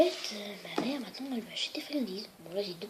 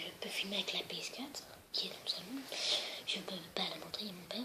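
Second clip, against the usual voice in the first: real hushed whisper, much softer; 8 dB quieter than usual. Real, not acted. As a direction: whisper so dad won't hear. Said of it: "C'est pour ça que je parle à voix basse". (chuchotement discret)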